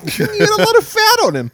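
put-on very high comic Jewish accent. Riffing on the cop conversation, mock Jewish accent. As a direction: joke along in a squeaky-high Jewish accent. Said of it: "now he's Jewish".

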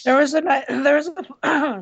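hoarse, strained voice; losing voice. Real, not acted. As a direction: voice giving out. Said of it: "sorry, I'm losing my voice".

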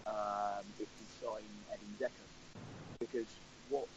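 bad line, voice dropping out; patchy connection, volume fading away. Real, not acted. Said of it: "you sound like you're on the International Space Station".

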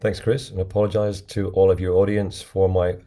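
hoarse and a bit rough; croaky voice. Real, not acted. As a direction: speak through a croaky throat. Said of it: "my croaky voice".

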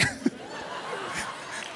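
unvoiced burst of laughter; breathy laugh. Real, not acted. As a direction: laugh it off warmly. Laughing at daughter's line.

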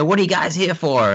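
quoting the driver, pitched well up; a put-on American driver asking; Uber driver voice.

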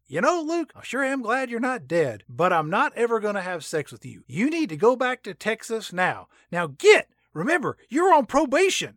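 high-pitched mock scolding; comic high-voiced dismissal. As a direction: put on a high voice to send him packing.

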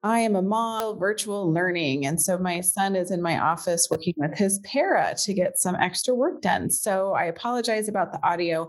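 echoey conference room sound; big hall echo. Real, not acted. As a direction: voice bouncing off bare walls. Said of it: "I sound a little echoey today".

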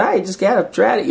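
mock-vague; vague brush-off. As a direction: wave the kid off lightly. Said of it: "He's like".

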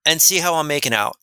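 high, disbelieving echo of her words; incredulous. Retold or imitated. Incredulous retelling of DMV call.

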